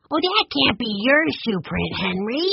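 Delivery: put-on high-pitched boy protesting; insistent. A narrator's reading. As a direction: object as an insistent child. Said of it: "Benny insisted".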